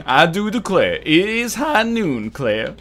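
Southern drawl with a voice crack. Pretend. Streamer's Southern drawl cracks mid-line. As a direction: let the voice crack on high. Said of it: "I don't know what that voice crack was".

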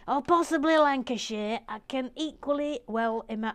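put-on slipping into a northern English accent. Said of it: "you've suddenly gone northern".

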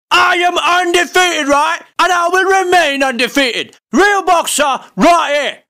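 hammed-up boxer callout, shouting; mock trash talk. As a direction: bark threats like a cocky fighter.

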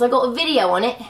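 British-tinged delivery, lifting at the end; British accent. Real, not acted. Vlogger telling viewers about her video, accidental British accent. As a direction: slip into a light British accent. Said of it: "Don't know why we got British there".

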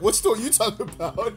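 laughing. Retold or imitated. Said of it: "I be like".

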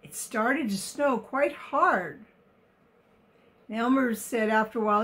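put-on reading a picture book to children; story narration. A narrator's reading. Reader telling of the elephants in the open, expressive story narration. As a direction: tell it expressively, every word carefully placed.

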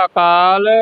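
ਅਕਾਲ as "a-kaal", opening a audible; initial vowel sounded. Shown as a demonstration. Teacher showing learners the first letter, careful pronunciation. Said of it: "ਐੜਾ ਲਾ ਕੇ ਪੜ੍ਹਨਾ ਹੈ".

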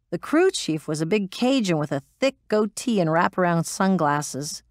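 ordinary delivery

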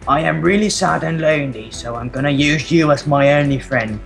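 lightly voiced blacksmith's wife writing her diary; diary reading voice. Reads diary as Miss Blacksmith.

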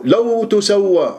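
لو تسوى pushed as if moved by the verse; overdone emotive reading. Shown as a demonstration. Teacher mocks a reciter reacting to the verse, overdone. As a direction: overact the feeling on لو تسوى. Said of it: "على أساس أنه أنت متفاعل".

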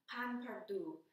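pain perdu in a self-mocking bad French accent. Shown as a demonstration. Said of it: "excuse my bad French accent".

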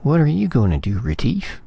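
high, worried question; anxious underling. A narrator's reading. Magnan finding his voice to ask Retief, anxious. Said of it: "Magnan found his voice".

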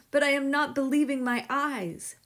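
high, loud disbelief; amazed. A narrator's reading. Husband staring into the box of sugar, amazed.

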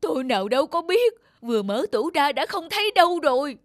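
high, loud panic over the loss; panicked cry. Acted. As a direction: wail in alarm at the theft. Wife panics over stolen statue. (hốt hoảng kêu lên)

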